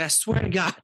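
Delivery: high-pitched protest to doubters; exasperated, high mock plea to be believed; retold insistence. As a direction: insist you really saw it, pitch jumping up. Retelling his insisting to disbelieving friends.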